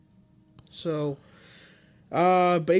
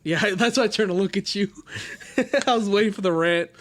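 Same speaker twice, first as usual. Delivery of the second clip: laughing; 3 semitones higher, faster than usual. Real, not acted. Laughing at co-host's expected rant.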